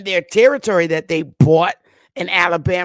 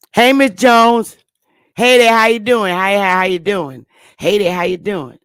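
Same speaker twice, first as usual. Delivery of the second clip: calling out greeting; 6 dB louder than usual. Acted. Census helper greeting Miss Jones on an acted visit, calling out. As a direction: call out a friendly hello at the door.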